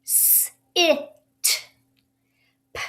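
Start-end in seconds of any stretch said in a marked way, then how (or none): 0.0-1.1 short i in "it" drawn out; short i sound. Shown as a demonstration. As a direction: say "it" with a clear short i, like a teacher. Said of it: "That I is going to say it".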